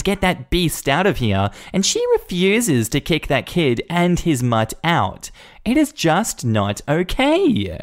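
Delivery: snooty Karen. Acted. Karen complaining to the assistant about the dog, whiny and snooty. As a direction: drip condescension, calling her honey.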